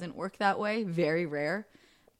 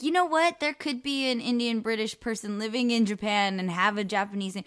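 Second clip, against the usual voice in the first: mock hissy fit; 3 semitones higher than usual. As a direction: mimic someone working up a huffy protest. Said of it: "get on a hissy fit and be like".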